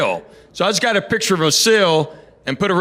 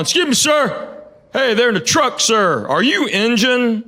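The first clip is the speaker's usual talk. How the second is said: retold yelling; 4 semitones higher than usual. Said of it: "he starts yelling".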